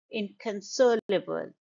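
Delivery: "inconsolable" as in-kun-SOL-uh-bul, with reduced vowels; schwa syllables. Shown as a demonstration. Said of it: "you can see the schwa".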